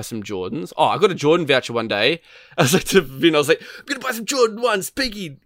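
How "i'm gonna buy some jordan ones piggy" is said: playful teasing voice. Retold or imitated. Telling friend about voucher.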